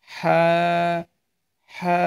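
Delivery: "হা" from mid-throat, vowel held; mid-throat articulation. Shown as a demonstration. Teacher shows learners the throat letter, "হা" drawn out from mid-throat. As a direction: push "হা" from the middle of the throat and hold it. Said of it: "আপনার গলার মাঝ বরাবর".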